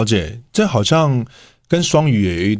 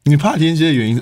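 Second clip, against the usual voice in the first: voice cracking; 4 semitones higher than usual. Real, not acted. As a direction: voice cracks on the question. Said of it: "哎，我怎么破音？". (声音破音)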